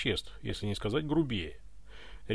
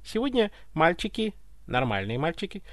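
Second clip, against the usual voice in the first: puzzled servant explaining; 5 semitones higher than usual. Acted. Baffled butler explains himself to tsar.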